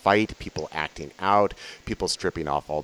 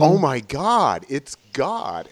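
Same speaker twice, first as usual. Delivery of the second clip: high, loud, slow burst of awe; awed exclaim; 6 semitones higher, 4 dB louder, much slower than usual. Retold or imitated. Recalling the moment he realized it was God, awed and loud. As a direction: let the realization break out, stretched and loud. Retelling realization, repeated with emphasis.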